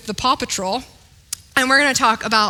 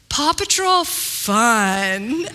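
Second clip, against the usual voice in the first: put-on toddler voice; much slower than usual.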